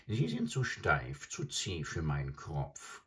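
an adjutant bird croaks scornfully at the crocodile; croaking adjutant bird. Acted. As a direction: croak it out like a greedy old stork. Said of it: "krächzte der Adjutant".

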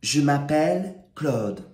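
"Je m'appelle Claude" said in careful French; French pronunciation. Shown as a demonstration. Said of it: "so just repeat after me".

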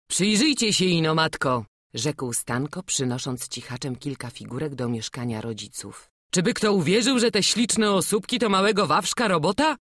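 a son showing his mother the carvings; proud son. Acted. Son shows figures to mother.

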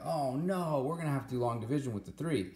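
high, quick mock panic of a student; whiny student panic. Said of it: "some of you guys are like".

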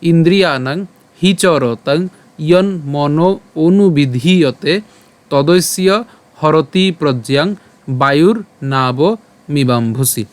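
slow shloka recital in separated phrases; verse recitation. Shown as a demonstration. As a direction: recite slowly for learners, word group by word group. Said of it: "প্রথম থেকে আরেকবার বলি". (থেমে থেমে ধীরে শ্লোক পাঠ)

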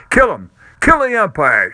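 loud, high furious crowd yell; angry shout. A narrator's reading. Fan in the stands shouting at the umpire, furious yell. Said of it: "shouted someone on the stand".

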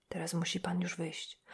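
hushed whisper, no voice. Acted. Old priest whispering to the visitor to leave. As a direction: keep it secret, breathe the words.

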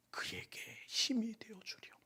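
a gentle whispered charge; whispered plea. Acted. Jesus to Peter, whispering the request.

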